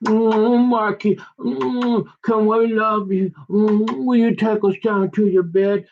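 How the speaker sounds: high, cooing flirty voice; swooning women. Retold or imitated. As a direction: coo it like an admiring fan. Women swooning over golfer Marky.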